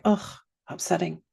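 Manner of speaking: offhand, casual sympathy; light, casual validation. Shown as a demonstration. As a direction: acknowledge the feeling casually, with little weight. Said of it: "It could be very casual".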